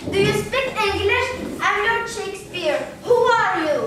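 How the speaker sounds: English. Acted. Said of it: "le voilà qui parle japonais".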